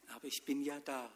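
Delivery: soft, tender reassurance; gentle. Acted. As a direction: say it softly, simply there. God gently answers the man. (Gott antwortet leise und sanft)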